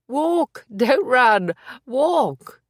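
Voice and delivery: high, loud commands called out; yelling. Acted. Maisie to the limping Billy, high urgent yell. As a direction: stop him running, shout it. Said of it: "she yelled".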